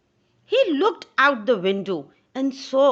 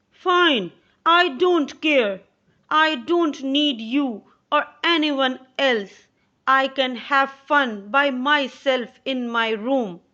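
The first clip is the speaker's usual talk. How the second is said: lightly voiced sulky boy, higher; a hint of a stubborn child talking back; defiant boy; 3 semitones higher, 3 dB louder than usual. John snapping back at his mother, lightly voiced defiant boy.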